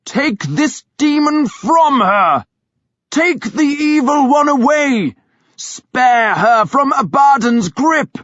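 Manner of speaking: high, loud, slow commanding cry; shouted exorcism. A narrator's reading. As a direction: command the demon out with full force. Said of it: "he shouted".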